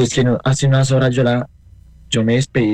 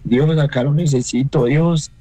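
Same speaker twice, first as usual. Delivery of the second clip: higher pleading, without shouting; retold cry to God; 4 semitones higher, slower than usual. Widower recalls calling on God for help, pleading. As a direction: call on God in a recalled prayer. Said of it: "Y yo gritaba, yo le decía".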